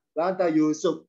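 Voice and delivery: "La anta Yusuf" kept low and level, no lift on the question; wrong low take. Shown as a demonstration. Teacher showing students the wrong low question tune. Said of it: "Jangan, jangan rendah".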